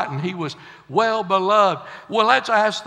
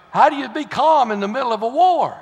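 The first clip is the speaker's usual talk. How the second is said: preaching louder; 4 semitones higher, 4 dB louder than usual. Real, not acted. Preacher challenges congregation.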